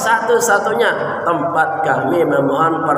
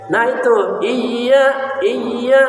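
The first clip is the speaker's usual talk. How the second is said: higher, pleased nah itu; eager praise; 5 semitones higher, much slower than usual. Real, not acted. Teacher happy the student got it. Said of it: "tekan betul".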